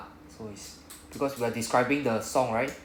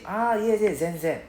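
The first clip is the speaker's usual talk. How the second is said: higher-pitched, offhand spoken answer; casual conversational reply; 9 semitones higher, 3 dB louder, slower than usual. Acted. Teacher acting out a chatty answer to a question, casual and higher-pitched. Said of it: "they want casual when we're caught in a conversation".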